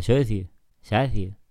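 slow exaggerated Murcian accent. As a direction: mimic a Murcian accent, slowly. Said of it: "Así es como hablan murcianos".

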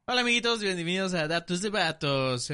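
high bright show-host greeting; chirpy kids' TV welcome; bright squeaky sing-song welcome. Acted. Podcast intro greeting to audience.

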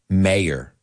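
"mayor" in two syllables, MAY-er; American pronunciation. Shown as a demonstration. Teacher answering how to pronounce it, "mayor" as MAY-er. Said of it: "say it with me".

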